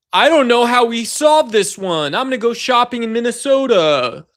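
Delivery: lightly mocking Kristi Noem shrugging it off; mock airhead. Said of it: "Kristi Noem saying".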